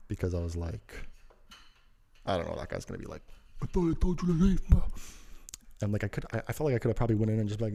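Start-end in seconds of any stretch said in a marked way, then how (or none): 3.6-4.8 high-pitched imitation of an indignant guy; put-on high voice, scolding; mock confrontation. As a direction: imitate someone catching him back inside. Imagines the man confronting him.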